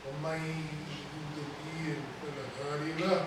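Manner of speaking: Arabic sermon invocation. Real, not acted. Imam opening the sermon with praise of Allah, hushed intoned recitation.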